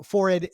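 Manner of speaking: "forehead" as "FORR-id", no h; British "forehead". Shown as a demonstration. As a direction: rhyme "forehead" with horrid. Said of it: "must rhyme in British".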